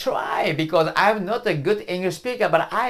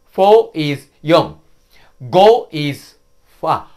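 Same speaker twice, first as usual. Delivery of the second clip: each number said slowly with a pause after it; slow counting drill. Shown as a demonstration. Teacher counting slowly for students to repeat. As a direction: count slowly and clearly for learners to echo. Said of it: "Please repeat after me".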